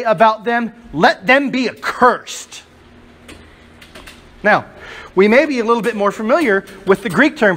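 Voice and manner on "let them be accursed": slow, each word weighed; solemn curse. Retold or imitated. Preacher quoting Paul's verdict to the congregation, slow and grave. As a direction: pronounce the curse slowly and gravely. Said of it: "what does ... Paul say".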